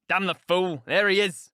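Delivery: loud, cursing outburst; man's sudden loud exclamation; crying out. A narrator's reading. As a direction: curse aloud in alarm. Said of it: "cried Heathcliff".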